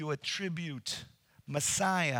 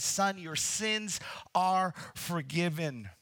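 authoritative; 2 semitones higher, slower than usual. Retold or imitated. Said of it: "with authority ... instantly he says".

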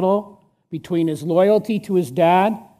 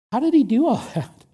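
voiced astonishment with a chuckle; amazed laugh; 6 semitones higher, faster than usual. Real, not acted. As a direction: laugh in disbelief mid-question. Preacher repeats with a laugh.

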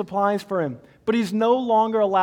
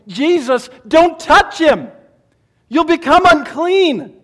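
loud, higher, slowed cry of alarm; alarmed crowd; 6 semitones higher, 9 dB louder than usual. Acted. Crowd protesting as Jesus touches the leper, alarmed loud cry. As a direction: warn him off in shock.

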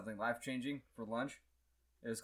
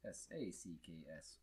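spelling it out; 10 semitones lower, 15 dB quieter than usual. Real, not acted. Writes the answer down.

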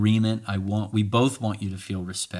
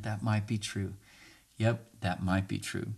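calm agreement; 5 dB quieter than usual. Shown as a demonstration. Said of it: "Just say it with me, friend".

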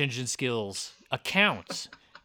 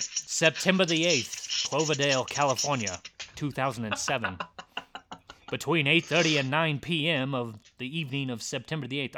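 1920s racetrack announcer. Acted. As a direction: announce it like a 1920s race caller. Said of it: "racetrack voice".

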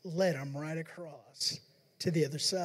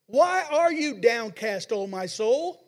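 loud, slow rallying call to your own soul; self-exhortation; 3 semitones higher, 7 dB louder, slower than usual. Retold or imitated. Preacher grabbing his own collar, calling his soul to rejoice. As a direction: shake yourself awake with the words. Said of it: "grab your collar to yourself and say".

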